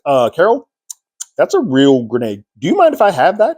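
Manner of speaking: polite Zosha voice. Retold or imitated. Zosha voiced asking for grenade.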